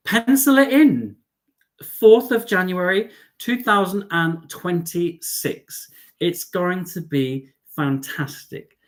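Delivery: high, slow and drawn out with excitement; a big, high, slow reveal; excited announcement. Real, not acted. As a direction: stretch each word out, thrilled. Excited announcement of cruise date.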